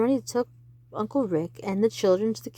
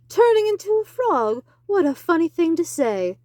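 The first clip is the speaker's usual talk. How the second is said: amused; 8 semitones higher, 7 dB louder than usual. Acted. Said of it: "she laughed".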